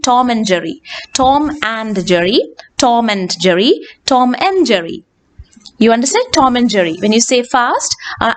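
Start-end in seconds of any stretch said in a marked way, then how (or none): 0.1-5.0 "and" reduced to n; weak and. Shown as a demonstration. Teacher drilling the weak form. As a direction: say "Tom and Jerry" as Tom-n-Jerry. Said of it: "very weak ആയിട്ടുള്ള ഒരു form".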